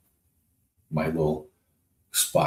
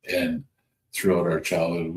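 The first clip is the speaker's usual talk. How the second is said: ordinary delivery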